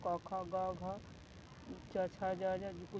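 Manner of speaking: क, ख, ग, घ, च, छ, ज, झ listed slowly, each one separate; reciting consonants. Shown as a demonstration. Teacher to students, slowly reciting the consonants. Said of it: "प के सिवा कुछ भी हो".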